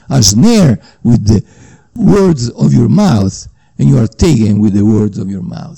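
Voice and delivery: solemn scripture reading. Acted.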